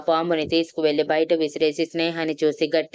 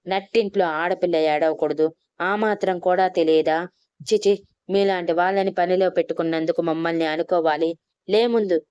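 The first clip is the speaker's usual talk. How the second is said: ordinary delivery, nothing marked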